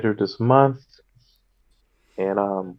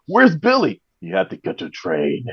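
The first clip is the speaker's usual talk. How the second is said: put-on corny action-hero line in Austrian accent; Arnold Schwarzenegger; 4 dB quieter than usual. Comic quoting corny movie lines, mock Austrian impression. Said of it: "He says it with the corniest lines".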